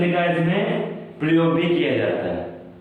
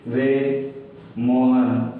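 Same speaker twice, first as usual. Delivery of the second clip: calling out; 4 semitones lower, much slower than usual. Shown as a demonstration. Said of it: "चिल्लाना".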